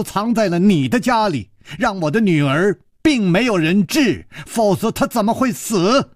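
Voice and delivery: put-on a grieving mother shrieking blame at the old man; sharp woman's voice. Mother blaming the host for her daughter's death, piercing high voice. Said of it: "花金宫那尖锐的声音".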